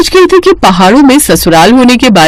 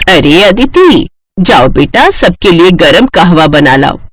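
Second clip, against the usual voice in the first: lightly voiced older woman, lower; mother-in-law; 4 semitones lower than usual. Mother-in-law asks bride to make hot kahwa, directing. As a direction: send the daughter-in-law off kindly.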